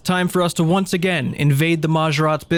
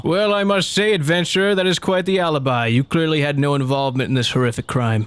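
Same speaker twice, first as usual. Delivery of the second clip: guard voice. Acted. Voicing the guard.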